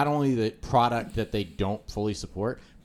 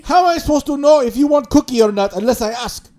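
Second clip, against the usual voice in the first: loud high fast exasperated yell; angry yell; 13 dB louder, faster than usual. Retold or imitated. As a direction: rant at the top of your lungs. Angry retold argument.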